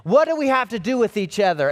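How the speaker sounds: mildly acted demon outcry; crying out loudly. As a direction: cry it out in a loud voice, quickly. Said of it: "crying out with a loud voice".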